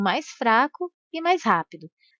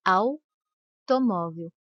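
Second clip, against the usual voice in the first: Automóvel slowly, stressing the a and keeping the u weak; slow demonstration; 2 semitones lower, much slower than usual. Shown as a demonstration. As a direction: spell Automóvel out slowly for the class. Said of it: "o A é pronunciado com mais intensidade".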